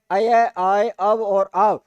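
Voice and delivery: अय, आय, अव, आव each said clearly and separately; teacher sounding out अय आय अव आव; sounding out syllables. Shown as a demonstration. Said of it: "जब शब्द का आप उच्चारण करते हो".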